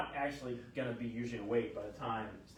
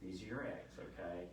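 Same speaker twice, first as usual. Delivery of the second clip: lower, softening retold reassurance; gentle reassurance; 3 semitones lower, 3 dB quieter than usual. Doctor reassures patient about her eggs, gentle calming. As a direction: calmly talk a confused patient down.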